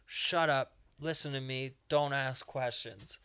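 loud opening, then firm and slowing; mock-domineering command; stern dominatrix. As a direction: order them around, slowing on the last words. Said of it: "that's what I told her to say".

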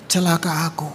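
low, soft confession of woe; humbled self-reproach. Acted. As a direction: turn the woe inward, subdued. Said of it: "Sekarang bilang". (meratapi diri, pelan dan rendah)

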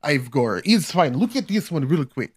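quick impression of a bemused foreigner showing off; mock Russian guy.

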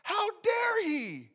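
high, loud, slow indignant shout; outraged listener. Retold or imitated. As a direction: shout it like a furious listener who can't believe it. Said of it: "You're like".

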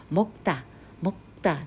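モッタ with a clipped stop in the middle; モッタ said twice in Korean; Korean meokda. Shown as a demonstration. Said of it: "食べるという動詞のモ".

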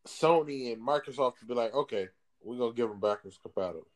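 talking around ice in the mouth; words slurred by a mouthful of ice. Real, not acted. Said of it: "There's ice in my mouth".

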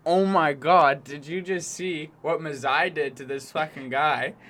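loud, excited bystander reaction; hammed-up amazed outburst; mock crowd amazement. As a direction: exclaim like a stunned onlooker.

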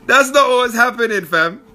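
hammed-up street reply to the Beast; shutting it down. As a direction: brush him off in a put-on high voice. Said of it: "You gotta say".

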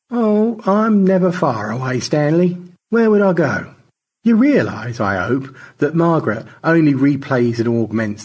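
high, mocking, theatrical lecture; scornful teasing, lively and swooping; needling crewmate George. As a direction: taunt him in an arch, high-pitched voice.

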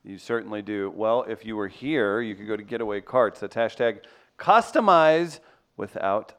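lively sponsor pitch, punching the brand name; radio ad read. Acted. Host pitching golf carts to listeners, upbeat ad read. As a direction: sell it like a live radio ad, stretching out the slogan.

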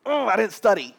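high, loud panicked gasp of a student. Retold or imitated. Student waking up before a big test, high and panicky. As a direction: play the student who just realised he never studied. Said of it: "you wake up and you go".

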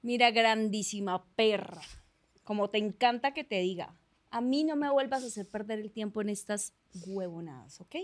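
controlled, menacing telenovela villain; villana colombiana. Acted. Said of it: "estilo actuación colombiana de villana". (villana colombiana, amenaza contenida)

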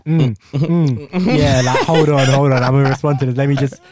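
talking through a mouthful; chewing while trying to answer; mouth full. Retold or imitated. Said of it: "you have to chew and you're like".

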